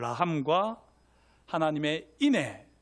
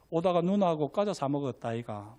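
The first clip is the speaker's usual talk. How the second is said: Gyeongsang dialect; 2 semitones lower than usual. Acted. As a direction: cover for her in understated Gyeongsang dialect. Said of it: "경상도 사투리로 할게요".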